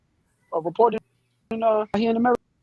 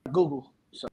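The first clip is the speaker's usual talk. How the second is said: sped-up chipmunk voice filter; 6 semitones lower, 5 dB quieter than usual. Real, not acted. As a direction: chipmunk voice changer effect. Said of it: "It's a chipmunk voice".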